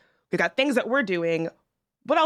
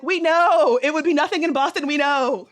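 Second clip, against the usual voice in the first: exasperated; 5 semitones higher than usual. Acted. Host answers bragging Boston relatives, exasperated. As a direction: cut the boasting off, done with it.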